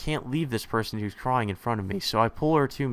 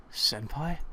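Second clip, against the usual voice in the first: questioning call, rising in pitch; higher, tentative call; 5 semitones higher, 3 dB quieter than usual. A narrator's reading. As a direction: call to her uncertainly. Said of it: "I call out to her".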